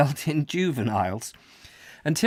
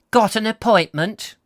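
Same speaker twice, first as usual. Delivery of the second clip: bored receptionist; 10 semitones higher, 6 dB louder than usual. Acted. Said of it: "she asked in a slow, husky".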